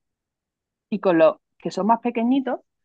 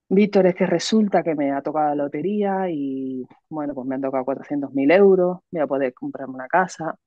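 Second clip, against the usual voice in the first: mismatched dull telling; 4 semitones lower than usual. Shown as a demonstration. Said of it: "mi tono de voz".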